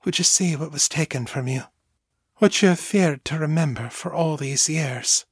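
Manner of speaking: gentle, lilting motherly question. A narrator's reading. Mother asks what her daughter has feared, gentle. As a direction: lead the child gently toward it. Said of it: "she asked gently".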